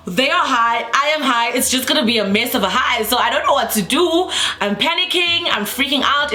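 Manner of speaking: mock freak-out climbing in pitch; retold panic.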